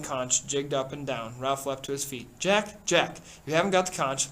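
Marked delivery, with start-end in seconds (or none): 2.4-4.3 higher, louder call for order; raised rebuke. Acted. Chief rebuking Jack at the assembly, raised voice. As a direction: pull him up sharply.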